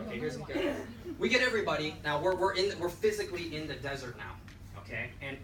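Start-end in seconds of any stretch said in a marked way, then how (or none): 0.1-0.7 pitched way up with a laugh; here's the kicker, half laughing; teasing excitement. Shown as a demonstration. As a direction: tease the big reveal, giggling. Repeats punchline teaser, laughing.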